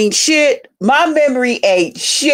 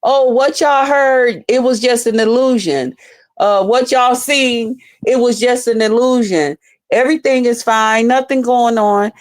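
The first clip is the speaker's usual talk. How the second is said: mock denial; 2 semitones higher than usual. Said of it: "I'm not gonna say".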